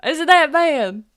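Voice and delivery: high, loud indignant question; affronted disbelief. Acted. Half-human asking about her insulted voice, affronted. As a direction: pitch it way up, offended.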